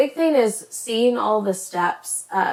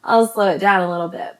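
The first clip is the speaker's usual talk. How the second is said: fast; faster than usual. Real, not acted. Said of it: "it's 'cause I'm talking fast".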